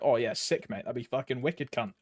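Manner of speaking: lightly put-on Australian accent. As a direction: slip into a casual Aussie bloke accent. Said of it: "I don't know why I went Australian".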